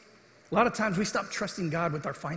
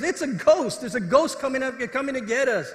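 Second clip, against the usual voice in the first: higher-pitched mock alarm, not a full yell; frightened yelling; 5 semitones higher than usual. Disciples spot a figure on the water, mock frightened yelling. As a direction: act out mild panic in a raised pitch. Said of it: "They started yelling, they're afraid".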